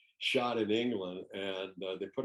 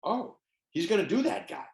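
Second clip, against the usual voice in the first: retold shock; 9 semitones higher, 3 dB louder than usual. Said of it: "going to another voice like".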